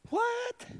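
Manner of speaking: high, sharp astonished what; a hammed-up what; mock disbelief. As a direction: feign shock at the verse. Preacher feigns disbelief.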